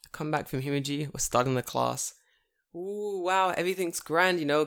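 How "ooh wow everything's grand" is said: higher, airy contentment; carefree mock cheer. Teacher starting class after holiday, carefree mock cheer. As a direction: play blissfully unsuspecting.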